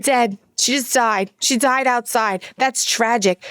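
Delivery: lightly imitated Brooklyn mom accent; mock-mournful Brooklyn delivery; Fran Drescher. Mom lamenting Bambi's mother, mock-mournful Brooklyn accent. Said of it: "talks like Fran Dresser".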